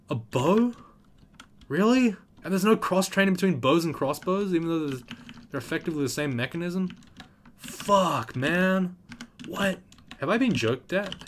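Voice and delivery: high, loud exasperated rant; outraged disbelief. Real, not acted. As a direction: rant in shocked frustration. Outraged at game mechanics.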